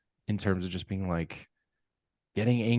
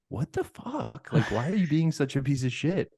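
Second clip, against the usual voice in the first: mock outrage; 7 semitones higher than usual. To the rude airline lady, a mock outraged rant. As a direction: let the disbelief explode. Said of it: "I wanted to just be like".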